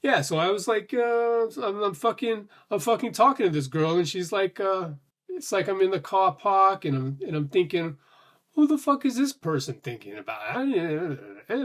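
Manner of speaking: put-on half-hearted Bill Burr with a Boston accent; attempted Boston accent in a Bill Burr impression. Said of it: "impression of Bill Burr".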